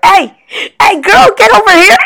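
high, laughing, shouted bro call; frat boy. Retold or imitated. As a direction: holler at her like a drunk frat bro. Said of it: "I sound like a frat boy".

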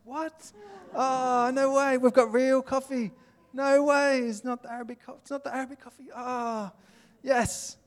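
high-pitched, gushing delight; excited expat greeting. Acted. Missionary meets an American family abroad, gushing with excitement. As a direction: act out thrilled expats finding each other.

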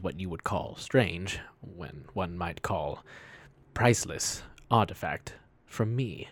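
measured, portentous character voice; slightly slow, formal delivery with weighty pauses; lightly voiced formal storyteller. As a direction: recount the theft with grave deliberation, pausing often. Plays character recounting a theft.

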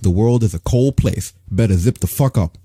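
put-on thick New York accent, unbothered; deadpan New York accent. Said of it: "in his thick New York accent".

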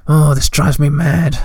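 slow, put-upon groan of frustration; slow, exasperated complaint. Acted. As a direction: sigh it out, fed up. Fretting Hemulin outburst.

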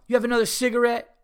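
high, loud, fast demand; entitled stranger. Retold or imitated. Entitled woman demands a cigarette, high, loud and fast. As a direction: fire off the demand like you're owed it. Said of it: "like an entitled cunt".

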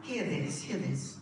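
softly assuring the beloved congregation; soft, intimate preaching. Acted. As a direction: lean in and tell them gently. Soft intimate sermon address.

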